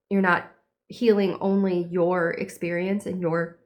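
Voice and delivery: talking through hiccups; words broken by hiccups; hiccuping. Real, not acted. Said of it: "I can't stop hiccuping".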